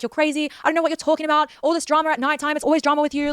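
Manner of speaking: high, scornful mock of his brush-off; mock him waving her off as dramatic; dismissive mocking boyfriend. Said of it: "He's like".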